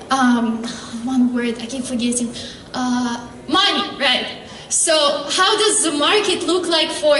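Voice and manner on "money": ordinary delivery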